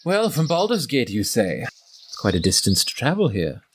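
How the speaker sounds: a lightly voiced half-orc, probing and suspicious; lightly voiced half-orc sizing up a newcomer; half-orc interrogator. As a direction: question the stranger coolly as the half-orc.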